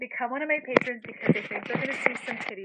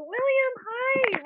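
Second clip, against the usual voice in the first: excited greeting; 13 semitones higher, 3 dB louder, much slower than usual. Real, not acted.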